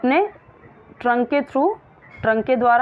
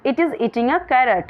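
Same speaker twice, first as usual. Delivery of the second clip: slow reading aloud; 2 semitones higher, much slower than usual. Shown as a demonstration. Reads slowly.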